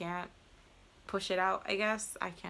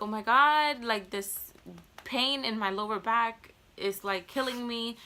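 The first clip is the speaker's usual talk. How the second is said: panicked pain; 3 semitones higher, 5 dB louder than usual. Retold or imitated. Groaning about back pain to nurse.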